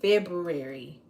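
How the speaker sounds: February said fully, loud, with the r after b. Shown as a demonstration. Teaching viewers to say it, loud. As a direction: sound out every syllable of February. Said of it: "That's how you say it".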